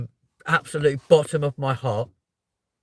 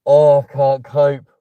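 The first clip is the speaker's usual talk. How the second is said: overwhelmed outburst; 11 dB louder, slower than usual. Real, not acted. Overwhelmed by subscriber milestone.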